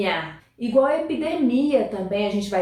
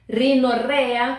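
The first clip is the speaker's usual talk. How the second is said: slow model word; slower than usual. Shown as a demonstration. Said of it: "teacher modelling vocabulary".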